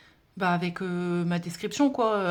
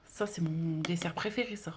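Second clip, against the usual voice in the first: whispered aside; 4 semitones lower, 6 dB quieter than usual. Real, not acted. Whispered aside over dessert card.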